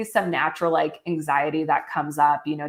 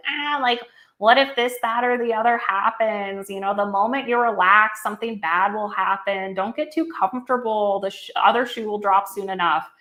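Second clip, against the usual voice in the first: acted-out nagging inner voice, higher at first, easing down; high-pitched nasally Panic; 4 semitones higher than usual. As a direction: act out an annoying, worried voice in a high nasal pitch. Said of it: "in this very high-pitched, nasally voice".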